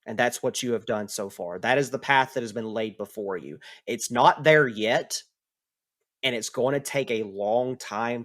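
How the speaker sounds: measured, lightly acted pronouncement; solemn Kurama speech. Kurama tells the player of a path to godhood, solemn. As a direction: lay out a destiny with deliberate weight.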